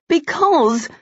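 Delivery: disbelieving repetition, climbing; outraged echo; incredulous. Acted. Colin repeats incredulously.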